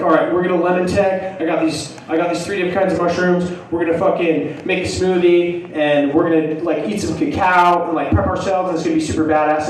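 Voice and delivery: imitating an over-excited hyper pitch; cracked-out hyper. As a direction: rattle it off like you're hyped up. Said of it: "sound like I'm cracked out".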